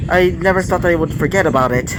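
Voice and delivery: light chuckle around the words; a little laugh. Acted. Izuku thanking Coco for his forgotten scroll, with a light chuckle. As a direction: laugh it off a bit, embarrassed. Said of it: "with a little bit of a laugh".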